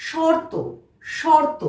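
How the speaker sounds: teacher modelling শর্ত with a clear র; model pronunciation. Shown as a demonstration. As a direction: sound র clearly before ত in শর্ত. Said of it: "একইভাবে".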